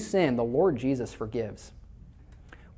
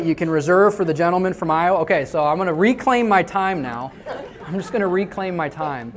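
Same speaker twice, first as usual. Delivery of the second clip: congressman; 3 semitones higher, 6 dB louder than usual. Retold or imitated. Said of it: "it's kinda like Congress".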